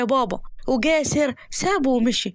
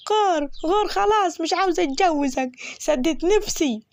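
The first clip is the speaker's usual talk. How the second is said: put-on higher, sharp angry girl telling him off; angry dismissal; 5 semitones higher than usual. Fahima shouting at Mahrous to get lost, angry. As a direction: shoo him away in a huff.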